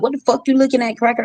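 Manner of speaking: mock her jeering from the street; light rude-mom impression; imitating mama's insult. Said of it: "My mama was like".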